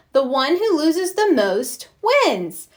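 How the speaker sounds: high, slow, grand fairy pronouncement; tooth fairy game voice. Acted. Francine playing Tooth Fairy at recess, grandly casting a spell. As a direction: cast a spell on the playground.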